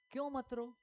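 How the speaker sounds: high-pitched rhetorical question; challenging question. Real, not acted. Preacher asks why Jesus said it, high challenging question. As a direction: lift the whole question high.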